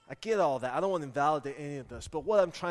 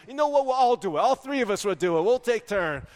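put-on eager, louder kid-plotting voice; gleeful little conspirators; 5 semitones higher, 6 dB louder than usual. Kids scheming at bedtime, eagerly.

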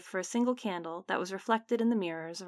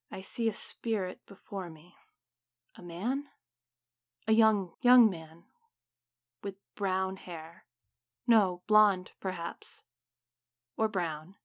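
a hint of a faraway trance, slow in places; distant dreamy voice; slower than usual. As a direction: speak as if half asleep in a dream. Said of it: "His voice became more distant, as though he was speaking from a dream".

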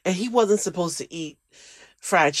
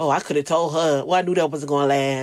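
mocking know-it-all; faster than usual. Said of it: "are like".

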